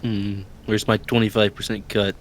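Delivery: low, soft Italian mobster voice; Italian accent. Acted. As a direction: lean into a mob boss accent. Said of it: "Why did you get an Italian accent?".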